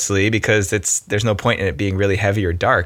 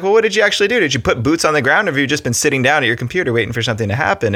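harsh challenge; 5 semitones higher, faster than usual. Retold or imitated. To a client who expects change, a harsh high challenge. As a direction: confront them bluntly. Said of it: "it's harsh".

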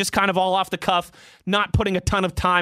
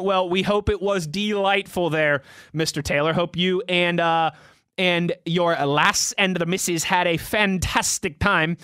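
slipped into Irish. Real, not acted. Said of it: "kind of Irish there for a second".

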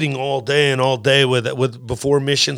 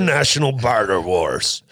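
mock announcer; 3 semitones lower than usual. Announcing an imagined game show title.

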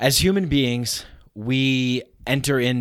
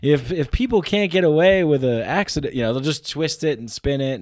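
put-on Southern lawyer accent; 6 semitones higher, 3 dB louder than usual. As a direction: play a slick Southern trial lawyer. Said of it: "it's like a Southern lawyer".

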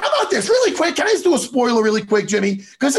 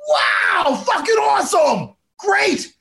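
excited gushing; 5 semitones higher than usual. Retold or imitated. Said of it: "I'm like".

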